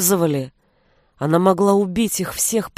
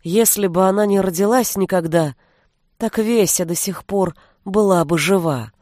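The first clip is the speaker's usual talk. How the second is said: ordinary delivery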